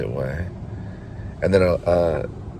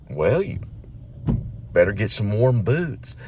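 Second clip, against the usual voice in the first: lightly voiced father from the South, higher and halting; fatherly voice; 4 semitones higher than usual. Father from the south visiting his son's mind, lightly fatherly. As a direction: pause after a raised opening, like a ghostly dad. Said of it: "So the father appears".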